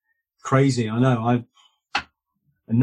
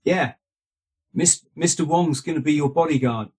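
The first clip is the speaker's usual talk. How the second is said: lightly imitated Hong Kong Chinese accent; a hint of a Hong Kong manager's accent; 3 semitones higher than usual. Manager confirming the bodyguard, light Hong Kong Chinese accent. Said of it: "Sorry, I'm doing the accent".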